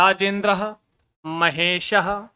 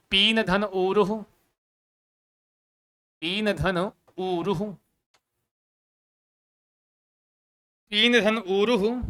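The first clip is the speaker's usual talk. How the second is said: slow dictation; slower than usual. Shown as a demonstration. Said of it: "important लिख लो भैया इसको".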